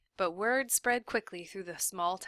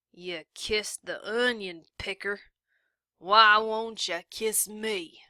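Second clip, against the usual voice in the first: leering taunt; 2 semitones higher, 6 dB louder, slower than usual. Acted. Drunk sheriff taunting.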